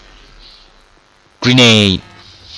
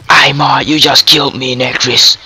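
raised-pitch protest at a player; indignant outcry; 4 semitones higher than usual. Real, not acted. Player killed by another player, indignant outcry. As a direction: cry out at whoever killed you.

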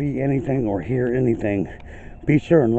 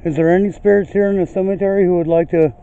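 raised, projected question; calling out to spirits; 7 semitones higher, 6 dB louder than usual. Real, not acted. Ghost hunter inviting spirits to speak, calling out. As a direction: call across an open cemetery, higher and louder.

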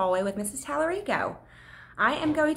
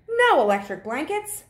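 high, loud flat no; loud refusal; 8 semitones higher, 5 dB louder than usual. Acted. Farmer refusing the cows' demand, loud and high. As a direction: bark out the refusal. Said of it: "said Farmer Brown".

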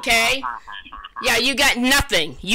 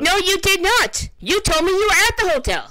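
raised, fast angry denial; angry retort; 7 semitones higher, faster than usual. Real, not acted. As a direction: snap back at the scammer, higher and fast. Angry confrontation with scammer.

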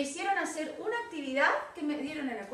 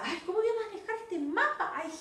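mock despair; 7 semitones higher than usual. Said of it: "porque decía".

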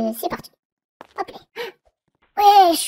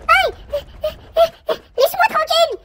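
mock whine; 9 semitones higher than usual. Real, not acted. Chased by guard, whiny cry.

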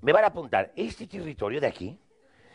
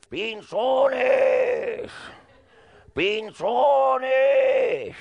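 calling out; 10 semitones higher, much slower than usual. Retold or imitated. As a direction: yell the name across the trees. Calling out in the jungle.

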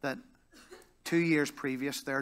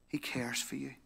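softly whispered, barely voiced; 7 dB quieter than usual. Real, not acted. Preacher whispering comfort to the congregation, whispered. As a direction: breathe the words to the congregation. Repeated line, now whispered.

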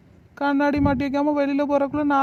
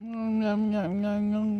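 low, soft lip-smacking mumble; sleepy mumbling; 3 semitones lower, 4 dB quieter, much slower than usual. Acted. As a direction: smack and mumble softly, half asleep. Sleepy mouth noises before waking. (தூக்கத்தில் முனகல்)

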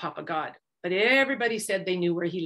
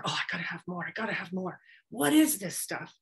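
Monkey hungry for more honey; greedy Monkey voice; 2 semitones lower, 4 dB quieter than usual. A narrator's reading. Greedy monkey murmuring.

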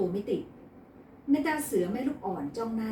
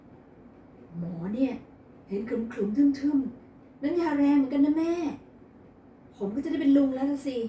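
loud, delighted and bragging; gleeful; 6 semitones higher, 6 dB louder, much slower than usual. A narrator's reading. Son to mother about sister's pregnancy, gleeful. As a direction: crow about becoming an uncle. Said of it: "อัสมาดีใจจนออกนอกหน้า".

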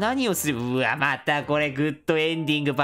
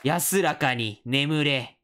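very slow, lower-pitched send-off; mock solemn farewell; 4 semitones lower, much slower than usual. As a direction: draw it out like a mock eulogy. Mock farewell to defeated boss.

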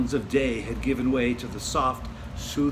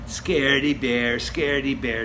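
teasing; 4 dB louder than usual. Acted. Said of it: "teased Brother".

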